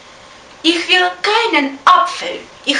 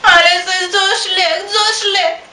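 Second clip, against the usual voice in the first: a touch of tearful whining on "Alles ist so schlecht"; whiny crying. Acted. Princess to her father, complaining in a tearful whine.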